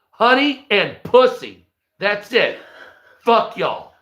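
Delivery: a hint of a swaggering thug; lightly voiced cocky tough guy; Gatlin voice. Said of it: "that's Gatlin".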